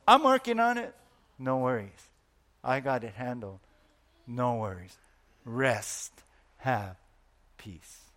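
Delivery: calm reassurance. Acted. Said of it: "He gives you to say".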